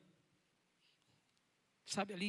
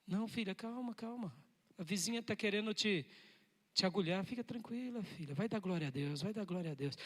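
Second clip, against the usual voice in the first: softer, tender calming of a daughter; gentle reassurance; 4 dB quieter than usual. Acted. The Lord calming a daughter about her neighbour, soft and tender. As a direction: hush her worries kindly. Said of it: "e o Senhor diz".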